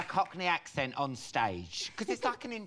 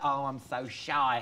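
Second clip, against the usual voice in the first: shy karaoke singer; 5 semitones lower, slower than usual. Acted. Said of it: "Are you one of those ones".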